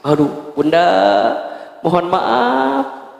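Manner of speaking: slow, drawn-out guilty apology; sheepish husband apology. Acted. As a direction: stretch out the sorry like a caught husband.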